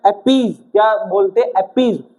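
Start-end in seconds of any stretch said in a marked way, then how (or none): 0.0-0.6 अपीज ending in a buzzing Z; अपीज, final sound a clear Z; pronunciation with Z. Shown as a demonstration. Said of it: "इसको क्या करना है?". 1.5-2.0 अपीज ending in a buzzing Z; अपीज, final sound a clear Z; pronunciation with Z. Shown as a demonstration. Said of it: "स नहीं बोलना".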